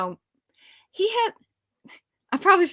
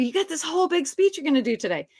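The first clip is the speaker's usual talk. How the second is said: higher, quicker, mildly excited; excited director; 5 semitones higher, faster than usual. Retold or imitated. Actress imitates director announcing her big speech, mildly excited. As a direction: imitate someone eager to share news. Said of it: "like, all excited".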